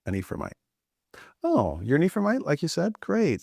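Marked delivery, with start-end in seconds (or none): 1.4-3.4 mocking guard. Guard mockingly tests Ephraimite.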